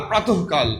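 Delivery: "প্রাতঃকাল" with an h before "কাল"; বিসর্গে হ উচ্চারণ. Shown as a demonstration. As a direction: sound the visarga inside "প্রাতঃকাল" as h. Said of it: "বিসর্গের পরিবর্তে আমরা হ উচ্চারণ করব". ("প্রাতঃকাল"-এ কাল-এর আগে হ উচ্চারণ)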